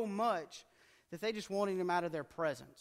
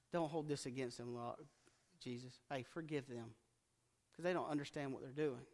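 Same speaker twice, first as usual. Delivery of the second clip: much softer and lower, a gentle plea; hushed dying prayer; 3 semitones lower, 5 dB quieter than usual. Retold or imitated. Stephen praying for his killers, soft and tender. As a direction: breathe it like a dying man forgiving his killers.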